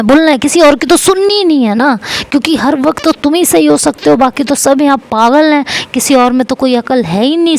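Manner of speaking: mock him for never listening; angry yelling. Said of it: "वो ऐसे चिल्लाए जा रही होती है मेरे ऊपर".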